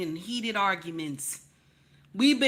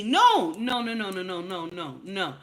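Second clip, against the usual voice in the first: emphatic refusal. Acted. Acted refusal of apology gift.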